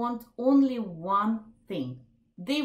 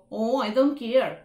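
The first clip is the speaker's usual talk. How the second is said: louder, mocking "Oh, I don't care"; mocking take; 6 dB louder than usual. Shown as a demonstration. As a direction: throw it back with scorn. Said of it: "not with an accusing intonation or mocking intonation".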